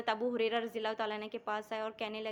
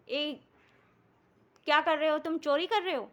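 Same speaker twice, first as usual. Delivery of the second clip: raised, louder voice catching a thief; shouted challenge; 4 semitones higher, 4 dB louder than usual. Retold or imitated. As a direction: call out sharply at the intruder. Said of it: "فوراً چلا کر کہا".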